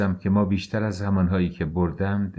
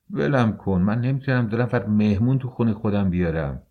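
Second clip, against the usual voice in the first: angry outburst; 3 semitones higher than usual. Acted. Angry husband pulling away.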